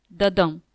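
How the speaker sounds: light "the", heavier falling "dum"; second heartbeat, weight on "dum"; heartbeat stress. Shown as a demonstration. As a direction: land the beat on "dum" and let it fall. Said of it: "one faint beat followed by a louder beat".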